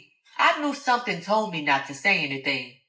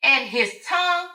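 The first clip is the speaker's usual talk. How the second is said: a somewhat higher taunting brag; mocking Alice; 5 semitones higher, 3 dB louder than usual. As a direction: humiliate her rival.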